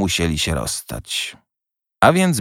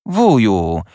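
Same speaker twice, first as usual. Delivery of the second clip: gentle reproach; 2 semitones higher, 3 dB louder than usual. A narrator's reading. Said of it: "upominał go łagodnie siostrzeniec".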